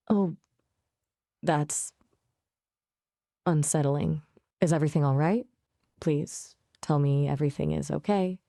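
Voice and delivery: understated, acted fear; hesitant, mildly worried plea; lightly faked fright with uneasy pauses. Shown as a demonstration. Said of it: "So can you do fear?".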